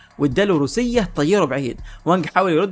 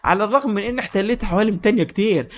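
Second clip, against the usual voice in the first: high-pitched pleading without much volume; hammed-up villain's frantic cry; mock scream; 5 semitones higher than usual. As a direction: plead for a halt, lightly panicked. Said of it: "صرخ فيه".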